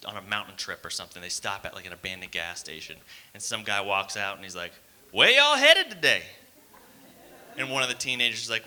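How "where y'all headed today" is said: high, loud, drawn-out holler; ominous local stranger, pitched way up; horror-movie warning guy. Acted.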